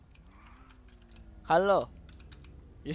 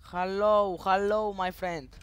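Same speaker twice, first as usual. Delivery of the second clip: calling out; 2 semitones higher, 4 dB louder, much slower than usual. Real, not acted. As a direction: call out to someone who isn't answering. Calling to unresponsive other players.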